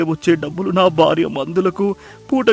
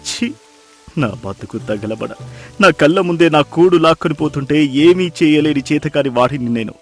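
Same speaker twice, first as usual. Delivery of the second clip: anguished lament, swinging between low and raised; wailing in despair; 9 semitones lower, 8 dB louder than usual. Acted. Fisherman on his knees in mud blaming himself, wailing in despair. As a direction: cry out to God in self-disgust. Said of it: "బోరున విలపించాడు".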